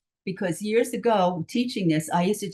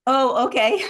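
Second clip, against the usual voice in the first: surprised; 6 semitones higher, 6 dB louder than usual. Real, not acted. Hand seen as question, amused realization.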